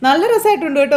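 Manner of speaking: playful praising voice.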